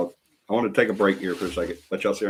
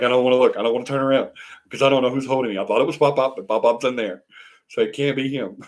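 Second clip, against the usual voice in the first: lightly voiced baby, higher and hurried; mock scared baby; 4 semitones higher than usual. Grandparent voicing the baby afraid to turn around, mock scared. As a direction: play at fretting in a raised pitch. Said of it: "He's scared to turn around".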